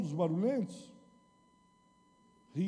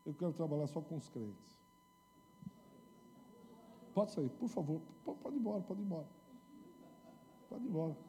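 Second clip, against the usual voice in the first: gentle Jesus; 5 semitones higher, 6 dB quieter than usual. Acted. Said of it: "Jesus diz".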